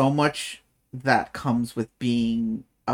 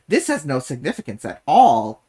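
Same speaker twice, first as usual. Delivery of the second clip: sarcastic; 5 dB louder than usual. Shown as a demonstration. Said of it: "Can you hear the sarcasm in my voice?".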